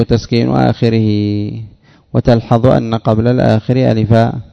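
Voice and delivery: reading the textbook passage aloud, measured; formal text reading. Acted. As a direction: textbook recitation.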